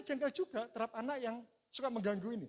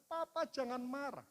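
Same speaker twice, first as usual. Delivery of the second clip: put-on child pleading; 5 semitones higher, slower than usual. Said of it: "Dia ngatakan".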